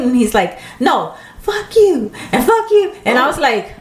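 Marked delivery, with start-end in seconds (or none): 0.8-2.9 imitating an irate customer, high-pitched; retold angry outburst, pitched up without real volume; mock yell. Festival volunteer imitates a yelling customer, mock angry. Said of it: "I hear a guy yelling".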